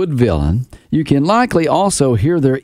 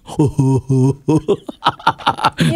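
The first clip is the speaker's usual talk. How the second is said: Cowardly Lion laugh. Shown as a demonstration. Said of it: "That's a cowardly lion".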